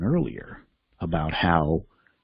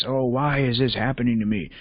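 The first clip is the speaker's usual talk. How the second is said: lightly whiny, raised pitch; a touch of put-on self-pity; mild mock complaint; 5 semitones higher than usual. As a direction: mildly imitate someone feeling hard done by. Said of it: "Instead of".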